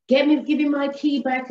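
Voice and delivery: high, hurried-out mock yell; mock scream. Screaming girlfriend demanding from her man, high mock yell. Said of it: "she's screaming and she's carrying on".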